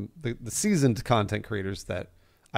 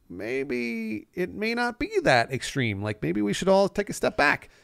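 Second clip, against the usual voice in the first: softer and slower, put-on calm and measured; mock-reasonable calm voice; 6 semitones higher, 4 dB quieter, slower than usual. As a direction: play the overly reasonable voice of reason, softly. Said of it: "we're like".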